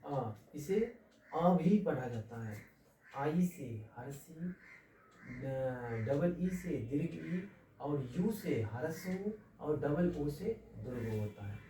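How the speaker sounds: slow, stretched, emphatic vowel drill; teaching vowel sounds. Shown as a demonstration. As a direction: drill each vowel slowly for beginners. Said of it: "इसका अंग्रेजी अनुवाद क्या होगा?". (धीरे-धीरे ज़ोर देकर स्वर बोलना)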